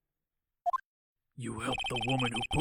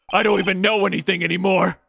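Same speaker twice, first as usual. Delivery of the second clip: loud, cracking outburst of despair; anguished shout; 5 semitones higher, 10 dB louder than usual. Acted. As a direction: yell it out in frustration. A confession breaking into an outburst.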